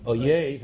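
"Oyev" with a y sound, said with extra weight; wrong pronunciation. Shown as a demonstration. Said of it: "instead of Ohev".

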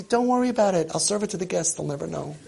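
a touch of breezy parent, fading away; mock reassuring parent. Parent telling the child the guests won't know, lightly mocked. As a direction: pretend all is fine, trailing off.

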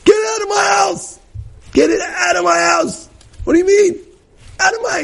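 high yelling grandmother; screaming. Retold or imitated. Great-grandmother screams at granddaughter, yelling high. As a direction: shout her out of the house. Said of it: "She screams at her".

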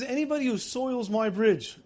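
barked order. Retold or imitated. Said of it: "he barks out an order".

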